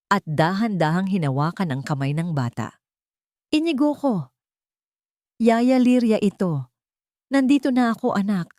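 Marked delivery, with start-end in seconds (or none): 3.5-8.5 tender. A narrator's reading. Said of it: "Bulong ni Liria".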